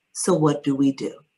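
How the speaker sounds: an even, matter-of-fact question; calmly. Retold or imitated. Patient hearing her leukemia diagnosis, calmly asking doctors what next. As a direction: stay composed, no panic in it. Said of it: "I just calmly said".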